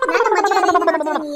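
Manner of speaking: loud exasperated shout; loud shout in a mock family fight; angry outburst. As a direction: blow up at her. Quarrel, mother-in-law erupts.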